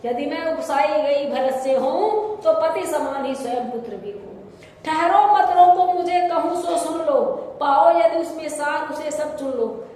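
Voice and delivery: dramatic verse, rising into a loud plea; declaimed Hindi couplets; poem recitation. Acted.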